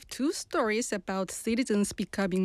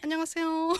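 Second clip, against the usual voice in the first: Busan dialect greeting, higher; 5 semitones higher, much faster than usual. Shown as a demonstration. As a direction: say it with a Busan lilt. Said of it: "you can hear my dialect".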